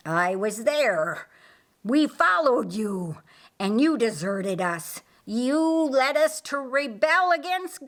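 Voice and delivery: betrayed demon berating Lucifer; bitter demon. Acted.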